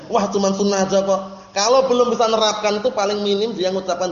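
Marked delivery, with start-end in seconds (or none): 0.1-1.5 mildly dismissive brush-off; a touch of a sulky shrug. Retold or imitated. Brother sulkily dismisses the advice, mild mock. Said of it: "Merengut wajahnya".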